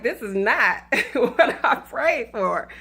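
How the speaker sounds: slow, laughing through the quote; laughing while imitating the guy's slow complaint. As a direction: crack up mid-line. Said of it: "he's like".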